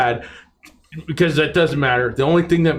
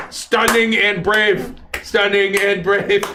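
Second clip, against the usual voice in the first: slow mock sincerity; 5 semitones higher, slower than usual. Mocking phrase.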